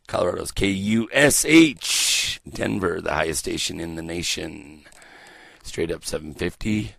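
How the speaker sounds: stretched call letters, then easing off; radio station ident. Acted. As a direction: announce the station like a DJ.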